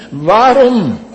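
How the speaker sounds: preacher voicing a loud cry of despair; anguished cry. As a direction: cry it out as Jesus on the cross. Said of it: "Hoor hem hier smartelijk roepen, schreeuwen, kermen".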